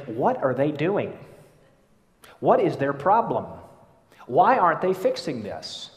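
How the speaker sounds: mock irritated grumbling; exasperated inner complaint. Preacher voicing a competent grumbler's thoughts, exasperated. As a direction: sound fed up with someone else's mess. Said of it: "and you think".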